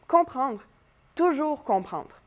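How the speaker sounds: slow, weighty stress on "toujours"; emphasis on TOUJOURS. Shown as a demonstration. Teacher quotes Antigone to her class, slow emphasis on "toujours". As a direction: draw out "toujours comprendre" with falling emphasis. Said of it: "Le mot toujours vient mettre de l'emphase".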